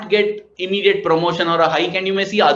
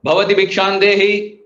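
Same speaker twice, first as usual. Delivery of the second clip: demanding like a king; 3 semitones higher, 4 dB louder than usual. Retold or imitated. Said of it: "like a king demanding for his tax".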